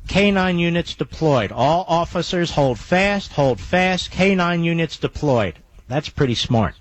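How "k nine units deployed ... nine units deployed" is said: reading scanner calls. Retold or imitated. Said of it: "All right, on the scanner".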